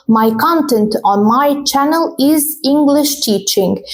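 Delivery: my CONtent, first syllable stressed, x0.5 slow; slow teacher model sentence. Shown as a demonstration. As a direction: read it slowly, stress CONtent. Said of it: "Content as a noun".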